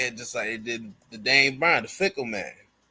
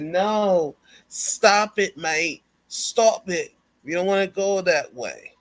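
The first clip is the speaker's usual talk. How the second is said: higher, urgent plea to stop; mock pleading Will; 7 semitones higher, 3 dB louder than usual. Wrestler pleading with partner to stop, higher urgent voice. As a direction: hold back a friend, pleading. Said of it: "Will stopped in and said".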